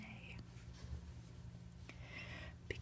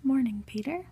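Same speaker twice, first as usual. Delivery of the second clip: called greeting; 3 semitones higher, 9 dB louder than usual. Acted. Office greeting called to a colleague.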